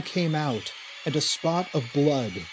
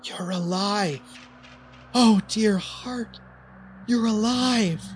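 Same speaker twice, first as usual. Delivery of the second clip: higher, eerie doting woman's voice; queer smiling woman; 6 semitones higher than usual. A narrator's reading. The woman greeting Raymond back from death, eerie doting croon. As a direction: croon it with a strange smile. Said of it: "She smiled queerly".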